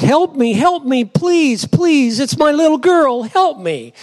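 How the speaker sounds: high, repeated desperate pleas; begging. Acted. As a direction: beg urgently for your child, pitched high. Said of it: "she's been crying and begging out".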